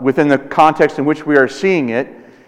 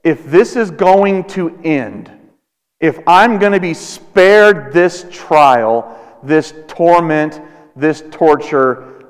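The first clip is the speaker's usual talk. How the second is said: slow earnest prayer; slower than usual. Acted. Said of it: "Jesus said".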